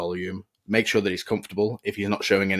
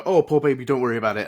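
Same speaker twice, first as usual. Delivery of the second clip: put-on higher, louder gushing baby talk; fussing dog owner; 4 semitones higher, 4 dB louder, faster than usual. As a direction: coo over the dog like a frantic owner. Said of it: "You don't want to go".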